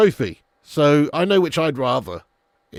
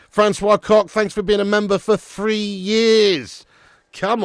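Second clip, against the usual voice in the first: excited shoutout; 8 semitones higher, 7 dB louder, slower than usual. Real, not acted. Thanking a channel member on stream.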